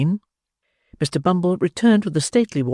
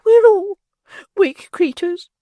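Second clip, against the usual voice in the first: matron; 7 dB louder, slower than usual. Acted. Matron telling the beadle all are weak. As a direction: sigh a general truth.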